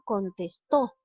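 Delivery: "contestó" with the final TÓ leaned on; stress on last syllable. Shown as a demonstration. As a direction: land firmly on TÓ in "contestó". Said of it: "la mayor fuerza de voz recae en la".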